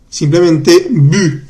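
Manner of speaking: "bu" said slowly, the vowel rounded French u; careful French bu. Shown as a demonstration. Teacher showing students the French sound, slow rounded "bu". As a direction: stretch out "bu" with lips rounded. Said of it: "con B larga".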